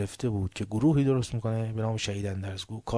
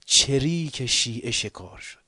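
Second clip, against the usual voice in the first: slow, louder mock broadcast; quoting enemy announcement; 3 semitones higher, 5 dB louder, slower than usual. Preacher quoting the Israeli radio, slow. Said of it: "اونا گفتن، اسرائیل".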